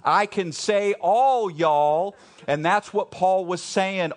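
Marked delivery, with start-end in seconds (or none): 0.0-2.2 Texan all y'all. Shown as a demonstration. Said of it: "I'm pretty sure in Texas".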